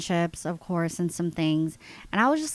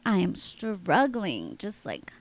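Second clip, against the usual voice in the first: short of breath, breathing hard. Real, not acted. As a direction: gasp between words, breathing hard. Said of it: "breathing hard".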